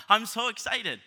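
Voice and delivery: high, loud mock-excited burst; hammed-up excitement. Husband proving excitement to his wife, over-the-top excited. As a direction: exclaim it as if jumping up and down. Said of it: "I just start jumping up and down".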